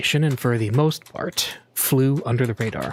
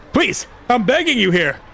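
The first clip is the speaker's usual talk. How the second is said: much higher, louder begging; desperate pleading; 11 semitones higher, 4 dB louder than usual. A narrator's reading. Stranger begging the passenger for his taxi, desperate. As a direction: plead like your life depends on it.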